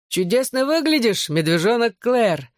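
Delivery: high teasing call across the yard; teasing shout to a girl across the yard. A narrator's reading. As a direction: call out to her, playfully. Gipsy calls out to girl.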